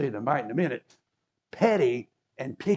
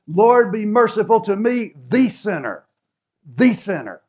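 louder, pleading cry; crying out for mercy; 5 semitones higher, 7 dB louder than usual. Retold or imitated. Tax collector crying out to God for mercy. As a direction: beg for mercy out loud. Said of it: "he cried out to God".

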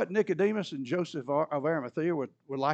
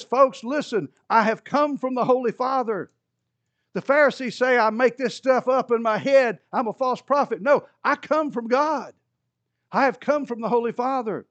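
hollered sermon; 6 semitones higher, 5 dB louder than usual. Retold or imitated. Preaching Jesus hollers his last sermon to the crowd, loud and high. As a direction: call it out to the whole crowd. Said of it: "he hollered it".

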